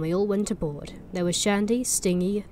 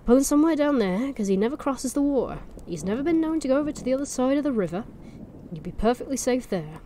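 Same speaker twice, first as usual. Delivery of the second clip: put-on Norfolk accent; 5 semitones higher than usual. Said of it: "push the accent".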